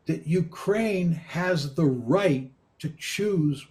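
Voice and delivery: right leaned on, slowed phrase; emphasize the word right; stress on right. Real, not acted. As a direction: lean on right, slow and deliberate. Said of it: "I would emphasize that word right".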